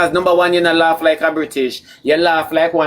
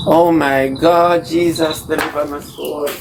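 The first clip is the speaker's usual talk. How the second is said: mock prayer; slower than usual.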